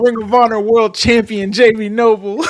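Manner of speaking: loud ring announcer full title; announcer call. Pretend. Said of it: "say the full name".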